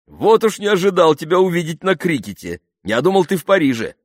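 high, loud, happily surprised; Джереми, delighted surprise. A narrator's reading. Jeremy surprised to see Pamela at cricket, delighted surprise. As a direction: exclaim with pleased amazement. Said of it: "обрадовался Джереми".

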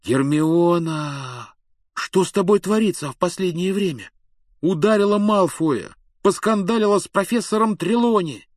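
high, loud and astonished; amazed. A narrator's reading. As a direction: blurt it out in disbelief. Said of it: "Рон был потрясён".

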